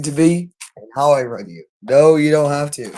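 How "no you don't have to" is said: said firmly and louder; emphatic louder denial; louder insistence. Real, not acted. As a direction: push the no hard, raised voice. Repeats line, first loudly.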